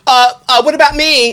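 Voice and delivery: high, loud needy whine; whiny ego voice. Pretend. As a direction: play a pushy ego begging for attention. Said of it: "the ego wants to say".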